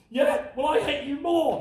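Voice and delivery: high-pitched mock yell back; angry son. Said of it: "we're just yelling in each other's faces".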